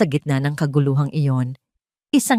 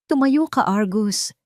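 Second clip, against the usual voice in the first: cold command; 4 semitones higher, slower than usual. A narrator's reading. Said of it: "utos niya. Ang boses ay malamig".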